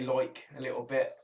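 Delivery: "like" with a slight Coventry twang, vowel toward "loik"; lightly exaggerated Cov "like"; Coventry accent. Shown as a demonstration. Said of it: "you kind of say".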